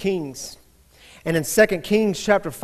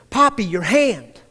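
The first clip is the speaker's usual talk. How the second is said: put-on raised, slowed-down call of a little girl; child yelling; 2 semitones higher, 4 dB louder than usual. Daughter yelling at her father across the dinner table, mock yell. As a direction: call out to Poppy, slower, with a louder push. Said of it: "she started screaming".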